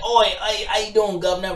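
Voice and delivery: brash mock British accent. Shown as a demonstration. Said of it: "Do a British accent, like".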